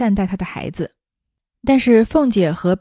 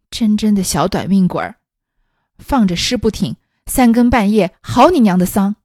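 grumbling curse; 4 dB louder than usual. Acted. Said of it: "口里嘟嘟哝哝地骂道".

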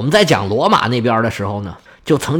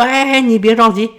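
acted hushing of a fretful petitioner, pitched up; soothing interjection; 8 semitones higher than usual. King tells the weeping old prince not to rush, soothing.

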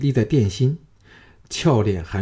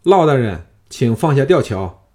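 calling up to the gate, louder; 4 dB louder than usual. Acted. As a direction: shout across to the palace gate. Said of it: "叫道".

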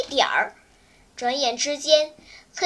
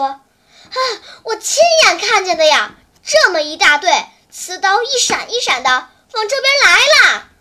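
louder, rushing to the end; wide-eyed alarm; 2 semitones higher, 6 dB louder than usual. Acted. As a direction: tell the leader what he saw, urgently. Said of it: "雨来惊吓人的瞪圆了眼睛". (惊恐地急着说)

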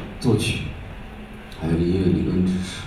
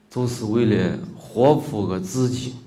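slow Guanzhong Shaanxi dialect phrase; 2 semitones higher, 3 dB quieter than usual. Shown as a demonstration. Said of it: "陕西关中话说的".

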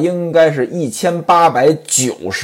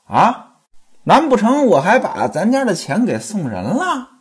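storyteller playing a wife berating her husband; nagging wife scolding, acted with moderate heat. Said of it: "李瓶儿就骂他".

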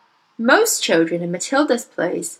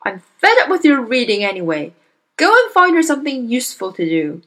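louder, irritable commands; angry father; 4 semitones higher, 5 dB louder than usual. Acted. Father complaining loudly to his wife about reading. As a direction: order them about, fed up.

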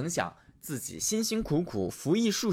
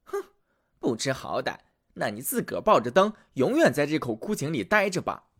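angry witch. Acted. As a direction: spit it out in a rage. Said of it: "火冒三丈".

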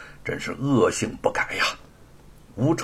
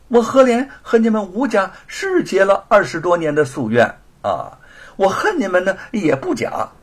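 loud, high, dismissive protest; defiant denial; 7 semitones higher, 5 dB louder than usual. Acted. Thief refusing to admit the theft, defiant denial. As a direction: deny it brazenly with scorn.

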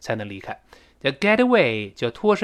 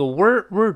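wor pitched up; high wor in worry; 5 semitones higher than usual. Shown as a demonstration. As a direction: lift wor above the rest. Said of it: "读得高".

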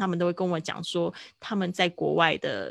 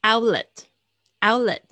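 Outlet said loud and clear twice; loud model word; 4 semitones higher, 8 dB louder than usual. Shown as a demonstration. Teacher repeats Outlet loudly for students to copy. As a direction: call out Outlet loudly for the class. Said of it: "student repeating after recording".

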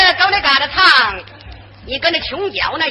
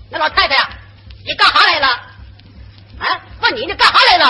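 barking, louder northeastern bully; hammed-up bossy cadre louder on repeat; rough official; 2 semitones higher, 4 dB louder, faster than usual. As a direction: interrogate the old woman gruffly.

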